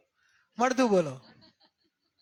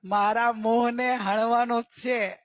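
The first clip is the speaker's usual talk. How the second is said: slow reflective line; slower than usual. Shown as a demonstration. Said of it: "ખાતી વખતે કહેવાનું કે".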